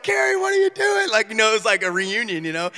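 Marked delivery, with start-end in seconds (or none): 0.0-1.1 high, excited greeting; old friend Jamal answering the phone, overjoyed; happy old friend. Retold or imitated. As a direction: greet a long-lost friend. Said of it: "He's like".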